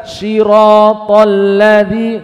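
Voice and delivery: siratal ladzi with the s turned into sh; wrong reading. Shown as a demonstration. Teacher demonstrating the faulty shin reading. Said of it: "nggak boleh".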